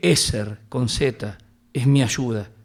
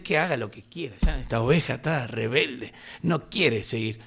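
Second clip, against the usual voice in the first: tired pastor. Retold or imitated. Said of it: "está cansado y dice".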